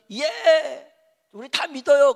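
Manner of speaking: high, loud cheering assent, imitated; eager crowd. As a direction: act out a crowd shouting agreement. Crowd's eager answer acted out.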